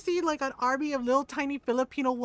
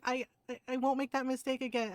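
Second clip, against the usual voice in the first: softer, hesitant imitated promise; timid apology; 5 dB quieter than usual. Young nurse promising tita, timid. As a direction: voice a junior promising quietly.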